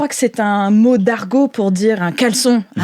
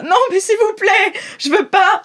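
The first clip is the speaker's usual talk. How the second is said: high, whining plea; pleading captive; 10 semitones higher than usual. Acted. GM voices Bridoul begging the players, high pleading whine. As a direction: beg not to be taken, voice pitched up. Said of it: "il est là".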